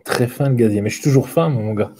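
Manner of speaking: put-on light Quebec French accent; hint of a Quebec French accent. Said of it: "Je parle comme les, tu sais, Québécois".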